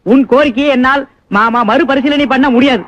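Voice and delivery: slow, stiff formal Tamil phrasing; mock pure Tamil. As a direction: announce the refusal like an official, slowly. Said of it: "சுத்த தமிழ்ல சொல்லட்டுமா?".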